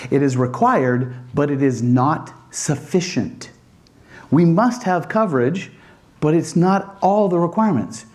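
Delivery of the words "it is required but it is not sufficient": slow, weighty "it is required, but it is not sufficient"; dramatic pause. Shown as a demonstration. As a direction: land it slowly after a pause, for effect. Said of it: "pause for effect".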